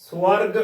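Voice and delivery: "ਸਵਰਗ" said full, as one run "swarg"; full-voiced pronunciation. Shown as a demonstration. Teacher shows learners the correct word, "ਸਵਰਗ" said full as "swarg". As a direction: fill out "ਸਵਰਗ", no vowel between s and w. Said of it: "ਭਰ ਕੇ ਬੋਲਣਾ ਹੈ".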